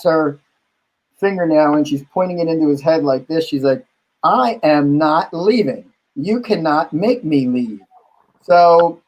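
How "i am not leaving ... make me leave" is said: slow, emphatic mock refusal; retold defiance. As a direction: act out a drag queen digging in, word by word. Drag queen refuses to leave.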